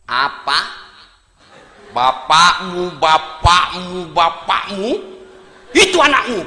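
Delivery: hammed-up wife scolding her husband; outraged wife. Wife angrily refusing money for husband's father, loud.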